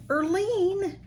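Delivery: high delighted call of a name; calling out a friend's name in happy shock; excited cry. Real, not acted. Opening a gift from a friend, calling her name high.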